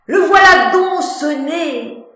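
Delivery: high, loud hammed-up wail; mock sobbing lament. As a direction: parody tragic sob. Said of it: "parodiant Pyrame en un sanglot". (sanglot parodique)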